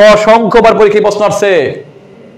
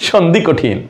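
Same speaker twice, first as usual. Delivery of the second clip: lower, softer, mock-whining student; whiny student complaint; 4 semitones lower, 5 dB quieter, much slower than usual.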